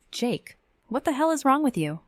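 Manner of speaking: high, loud angry yell at Jake; furious yell. A narrator's reading. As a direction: scream the accusation at him. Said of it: "I yelled at him".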